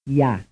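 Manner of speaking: one syllable with glide; glide plus vowel. Shown as a demonstration. Teacher contrasting a semivowel. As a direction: slide from y into the vowel. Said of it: "something a little different".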